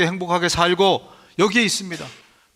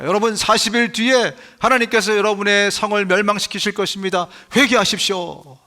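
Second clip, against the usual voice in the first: mock prophet's call to repent; 3 semitones higher than usual. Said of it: "막 회개하라고 외치고 다녔어요".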